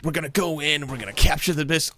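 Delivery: mock military briefing to the team; exaggerated military voice. Gamer imitating an open-mic Warzone player briefing his team, exaggerated military voice. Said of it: "doing a really exaggerated military voice".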